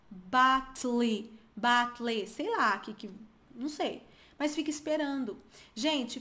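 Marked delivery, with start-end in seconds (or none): 0.1-2.3 BATTLE with an imagined vowel sounded at the end; expected final E. Shown as a demonstration. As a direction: say "battle" as bat-lee, bat-lay. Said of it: "esperando esse som de E no final".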